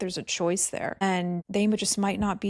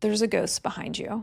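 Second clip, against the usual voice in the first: dead flat, level delivery; 2 semitones higher than usual. Retelling what the husband said in an underground tunnel: imitating a flat delivery. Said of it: "he said so flatly".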